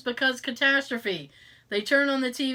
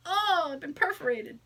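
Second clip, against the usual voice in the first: higher, hammed-up stabbing victim; mock death line; 5 semitones higher than usual. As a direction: overplay a theatrical dying cry. Acts out instant stabbing death.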